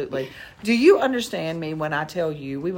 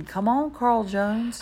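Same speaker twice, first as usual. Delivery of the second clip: drawn-out, higher call to a dog; mock yell; 5 semitones higher, slower than usual. Big man calling his tiny dog, mock yell. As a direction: call the dog slowly, imitating a yell without full volume. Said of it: "six-foot-six man is yelling".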